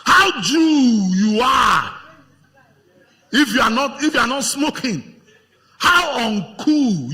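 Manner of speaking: loud, slow, sing-song taunting of the friends; mocking peer voice. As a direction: jeer like a teen egging a friend on. Preacher mocks peer-pressuring friends.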